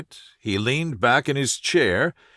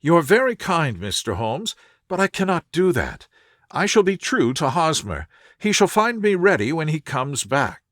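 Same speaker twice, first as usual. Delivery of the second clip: put-on higher, earnest voice of a worried young woman; anxious young lady; 4 semitones higher than usual. A distressed visitor telling Holmes her fiancé vanished, higher and anxious. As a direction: plead your case, raised and anxious.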